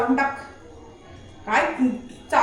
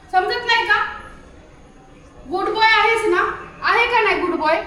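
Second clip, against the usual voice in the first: coaxing; 6 semitones higher than usual. Real, not acted. Coaxing questions to the dog.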